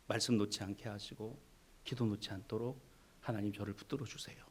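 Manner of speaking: low, soft earnest prayer; hushed sincere prayer; humble prayer. Pretend. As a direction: pray quietly and trustingly. Faithful prayer voiced in sermon.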